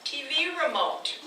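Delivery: loud laughing hard sell; pushy salesman. Acted. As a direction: push the sale, laughing.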